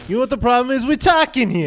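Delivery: put-on Italian-American street accent; mock Italian-American accent. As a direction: play an indignant Italian-American. Riffing on Italian accent catchphrase.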